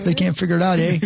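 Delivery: lightly put-on Canadian accent with a rising eh; a hint of a Canadian accent, teasing the store's failure; mock Canadian accent. Joking about Target failing in Canada, in a mild mock Canadian accent. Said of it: "That's a great accent".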